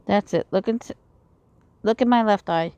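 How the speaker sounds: reading visual novel dialogue aloud; lightly acted character lines; game story read in character; voicing game characters. Voices game dialogue between characters.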